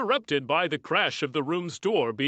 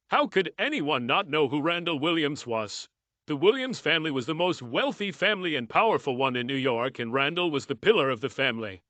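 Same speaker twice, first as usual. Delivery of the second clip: ordinary delivery, nothing marked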